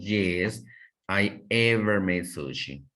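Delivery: mistaken sentence with ever stressed, said as what not to say; teacher demo of the incorrect form, ever emphasised; wrong example. Shown as a demonstration. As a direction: show the wrong use of ever, leaning on ever. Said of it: "pero no decimos".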